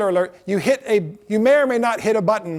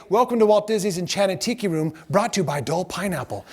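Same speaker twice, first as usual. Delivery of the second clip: spiel. Shown as a demonstration. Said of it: "you had to say".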